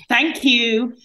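mock parroting thank you; lightly mimicked sulky thanks; parroty thank you. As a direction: echo it back like a parrot. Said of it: "in a really sort of parroty way".

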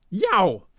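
sharp cry of pain; howl of pain. Acted. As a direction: yelp as if hit hard. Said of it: "he howled in pain".

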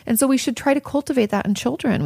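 ordinary talk

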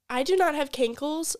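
loud mock indignation; half-serious angry snap; retold anger. Retold angry reply to Colin.

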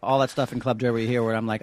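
ordinary talk

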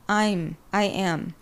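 slow "I'm, I am", the m clearly closed; correct contraction. Shown as a demonstration. Correcting those who say it wrong, slow clear "I'm, I am". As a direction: spell it out slowly: "I'm, I am", ending on m. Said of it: "Could just say".

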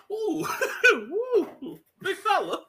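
high, teasing coo; lightly hammed-up taunt; mock teasing. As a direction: tease the big guy.

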